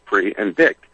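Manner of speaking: PRE and DICT as two separate syllables; split into syllables. Shown as a demonstration. Explaining the word predict to the host, split into syllables. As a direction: say PRE, then DICT, each on its own. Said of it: "there's two syllables".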